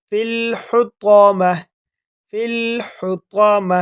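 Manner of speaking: فی الحطامہ slowly with heavy ح; tajweed; tajweed recitation. Shown as a demonstration. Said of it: "اگر وقف کریں گے".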